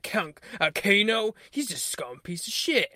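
lightly imitated bizarre line reading; slow down into a slightly odd put-on voice; odd-talking movie character. Film character insulting Kano, lightly imitated odd delivery. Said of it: "listen to how he talks".

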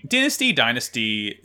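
"dynasty" said first as "din-asty", then as "dye-nasty"; British pronunciation. Shown as a demonstration. Musing on how they say it across the pond, "dynasty" as "din-asty". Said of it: "they say dynasty across the pond".

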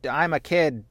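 pouting sore loser complaining; whiny kid voice. Acted. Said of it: "the mask off".

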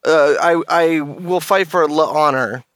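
a hint of a smug neckbeard; nasal smug neckbeard. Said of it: "recently euphoric fucking neckbeard".

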